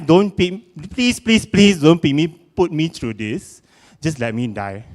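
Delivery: mock pleading whine. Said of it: "I'm like".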